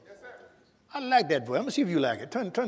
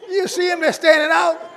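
much higher and louder, bursting with delight; preacher pointing out the words to the congregation; thrilled exclaiming; 12 semitones higher, 7 dB louder than usual. Real, not acted. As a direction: exclaim it like you just spotted treasure.

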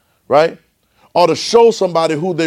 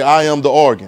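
call for response; 3 dB louder than usual. Shown as a demonstration. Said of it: "Come on, say it again".

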